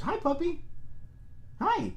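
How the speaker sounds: very high, soft puppy talk. Real, not acted. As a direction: coo at the puppy. Greeting a puppy.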